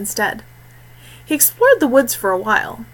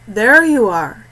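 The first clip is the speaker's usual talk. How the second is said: lightly amused greeting; a touch of amusement, as if he found him at last; 5 dB louder, slower than usual. Acted. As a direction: Kieran mildly amused at finding Tyrell. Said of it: "his tone amused".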